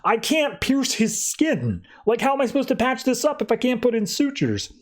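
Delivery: a lightly voiced doctor at his wits' end; frustrated doctor. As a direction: play the baffled surgeon. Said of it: "And the doctor's like".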